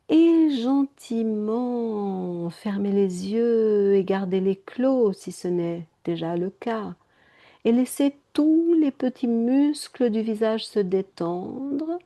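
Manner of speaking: slow, stretched-out soothing delivery; gentle yoga nidra guidance; guided meditation. Acted. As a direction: draw out the vowels and ease them inward. Leads a meditation.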